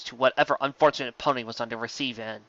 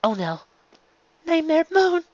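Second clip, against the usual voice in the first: alarmed recognition. A narrator's reading. A guard spots the villain, alarmed higher cry. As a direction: gasp out the name in dread.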